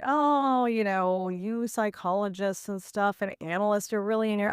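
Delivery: lightly voiced arrogant surgeon; mock dismissive surgeon. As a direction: imitate the surgeon waving away psychology talk, a touch hammed-up. Surgeon dismissing her concerns.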